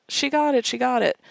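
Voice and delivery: high, loud cheering; excited cheer. Retold or imitated. Cheering for Emily's win, high and loud. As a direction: cheer her on with glee. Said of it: "between all of these other lines".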